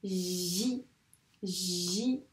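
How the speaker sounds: "J" said "ji", with a long buzzing onset; slow repeated "J", both sounds held; dictated syllable. Shown as a demonstration. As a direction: stretch "J" into "jjji" for dictation. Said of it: "la syllabe".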